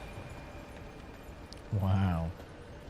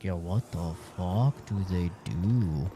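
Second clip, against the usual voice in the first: worried owner. Retold or imitated. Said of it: "I'm like".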